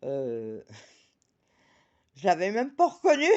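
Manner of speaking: laughing through the words, fast. Real, not acted. Telling viewers about not recognising the neighbour, laughing. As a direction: giggle it out quickly.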